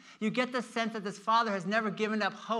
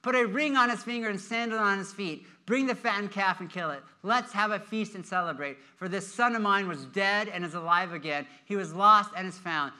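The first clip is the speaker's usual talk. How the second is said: urgent father's orders; 5 dB louder than usual. Acted. Father telling servants to dress his returned son, urgent and excited. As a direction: rattle off orders for a celebration. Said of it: "the father said to his servants, "Quick".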